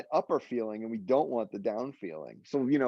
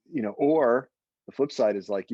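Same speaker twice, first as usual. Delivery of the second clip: ordinary talk, nothing marked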